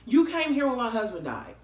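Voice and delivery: high, loud eager questions; hammed-up desperate recall; mock high asking the fireman; frantic recognition. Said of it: "And I was like".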